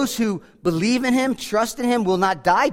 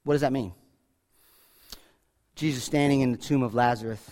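ordinary talk, nothing marked

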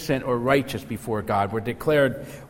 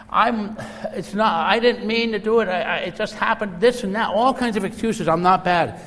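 higher, louder, pleading excuses; whining protest; 9 semitones higher, 4 dB louder than usual. Retold or imitated. Preacher acts prisoner whining to warden he was framed, higher and louder. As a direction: protest you were framed, voice up high.

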